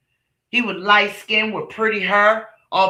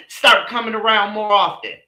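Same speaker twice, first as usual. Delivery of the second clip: mocking echo; 2 semitones higher than usual. Echoing the mama's invite with scorn. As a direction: throw her words back at her. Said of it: "Why do we have to come".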